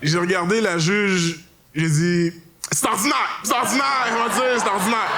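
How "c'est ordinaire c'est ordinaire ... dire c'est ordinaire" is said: mocking shout. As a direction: fling the phrase back, shrieking and fast. Throwing judge's phrase back.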